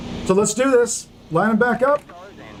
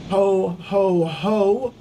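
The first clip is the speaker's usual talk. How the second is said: Santa ho ho ho; much slower than usual. Pretend. Santa laugh at Christmas Eve.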